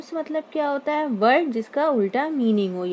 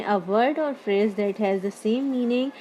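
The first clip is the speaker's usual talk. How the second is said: very slow, word by word reading of the definition; dictating a definition to the class, very slowly; slow dictation; much slower than usual. Shown as a demonstration. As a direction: read it out slowly so students can copy. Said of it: "जैसे यहाँ definition लिखी मैंने".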